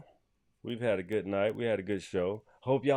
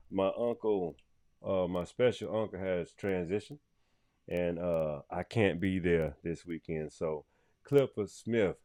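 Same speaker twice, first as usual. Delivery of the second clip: low, soft, grieving farewell; somber tribute; 3 semitones lower, 4 dB quieter than usual. Real, not acted. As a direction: speak softly in mourning. Tribute to uncle who transitioned.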